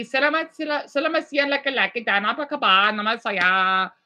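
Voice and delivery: playful mock Indonesian; Indonesian-style accent. Shown as a demonstration. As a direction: imitate Indonesian speech, lightly. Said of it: "So in Indonesia, it'll be".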